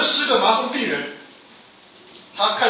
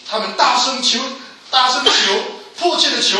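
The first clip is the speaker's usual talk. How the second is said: urgent; 5 semitones higher, 5 dB louder than usual. Acted. Preacher building urgency.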